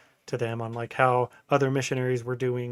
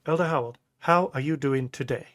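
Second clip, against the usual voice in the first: put-on Nigerian accent. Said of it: "in his Nigerian accent".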